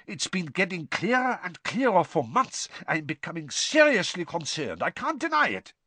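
anxious, high, keen not to be overheard; urgent nervous plea, half-hidden; anxious and hushed. Acted. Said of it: "voice sounded anxious and hushed".

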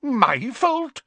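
high, urgent minister pleading his case; anxious wizard official, pitched high; Fudge's voice. Acted. Fudge tells the Prime Minister they're at war, high and urgent.

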